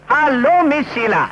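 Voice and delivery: slow, lingering hello; drawn-out greeting. Acted. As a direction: stretch out the greeting with a flourish. Greets the woman on arrival.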